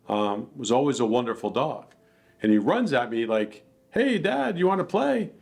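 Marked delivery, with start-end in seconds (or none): 3.9-5.3 high goofy dog voice; voicing the dog. Owner voicing his hyper dog, high and playful. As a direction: play the eager dog, bright and bouncy.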